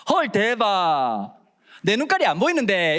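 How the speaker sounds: put-on teen slang. Teen's sceptical reaction voiced.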